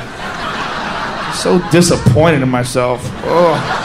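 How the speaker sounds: mock self-disgust. Self-loathing after gaming.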